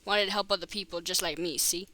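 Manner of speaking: lightly voiced Boston policeman; attempted Boston accent. Policeman making small talk with the new boy, light Boston accent. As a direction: put on a slight Boston accent. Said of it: "He's gonna have a Boston accent".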